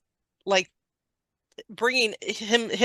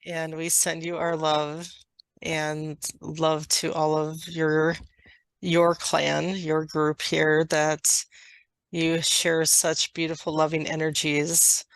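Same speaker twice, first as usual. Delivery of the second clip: slow, measured channeled delivery; channeled message; 4 semitones lower, 3 dB quieter than usual. Acted. Dragon clan sends love to a listener, slow channeled message. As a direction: speak evenly, pausing between phrases.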